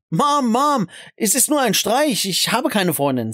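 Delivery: high, pleading call to mom; urgent protest. A narrator's reading. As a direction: call off the joke in mild alarm. Son calls off prank under blows.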